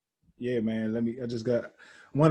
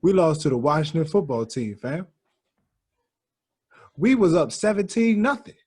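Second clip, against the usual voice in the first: loud, raised-pitch disbelief; exasperated rant; 5 semitones higher, 5 dB louder than usual. Real, not acted. Fan addressing the camera about the Eagles' loss, loud exasperation. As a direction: protest your team's collapse, loud and high. Fan rants at losing team.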